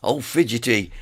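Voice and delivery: croaky, hoarse sore throat. Real, not acted. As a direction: push words through a hoarse throat. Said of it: "You'll already notice my voice".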